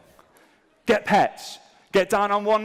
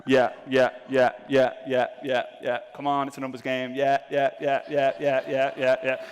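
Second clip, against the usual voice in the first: low, mechanical run of approvals; rattled-off yeses; 4 semitones lower than usual. Acted. Saying yes to everyone on a dating app, rattled off. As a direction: repeat it evenly, like indiscriminate swiping. Acting out indiscriminate approving swipes.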